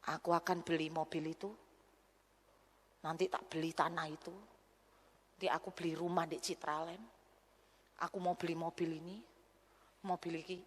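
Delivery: low, soft, faraway talk; dazed daydreaming. Retold or imitated. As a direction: muse as if lost in a dream. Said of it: "sampai gini".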